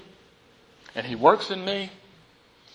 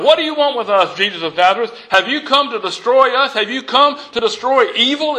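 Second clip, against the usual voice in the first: cried out; 5 semitones higher than usual. Acted. Possessed man crying out to Jesus, alarmed. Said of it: "cried out".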